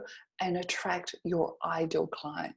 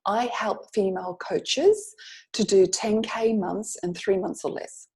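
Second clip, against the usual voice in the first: slowly spelled-out pitch line; slow sample pitch. Shown as a demonstration. Coach slowly demonstrating the one-sentence pitch to students. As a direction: read the line slowly and clearly. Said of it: "you could say something like".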